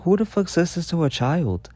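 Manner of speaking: high, indignant outburst; mock-outraged child talking back; outraged retort. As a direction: fire back in disbelief at the teacher. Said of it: "I'm like".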